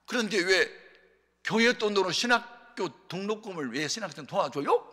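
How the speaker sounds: acted-out indignant complaint; confrontational challenge. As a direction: demand an explanation from the pastor. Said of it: "막 그러면서 따지는 거예요".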